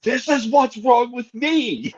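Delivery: milk the line with mock drama; mock dramatic. Telling friends about scaring his daughter, drawn out and high. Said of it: "I would go".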